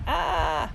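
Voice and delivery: imitated scream. Narrator recalls his brother's scream, half-hearted imitation. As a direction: mimic the scream at half volume.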